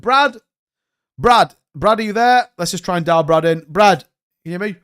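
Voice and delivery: mock urgent check that he's there; calling out. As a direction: pretend to hail someone on a bad connection. Pretends to dial a guest in.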